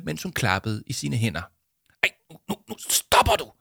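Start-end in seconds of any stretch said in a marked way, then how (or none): 2.0-3.5 high, anxious hushed plea; worried. Acted. Arthur stopping Jama, worried and pleading. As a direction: beg her to stop before trouble. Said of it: "sagde Arthur bekymret".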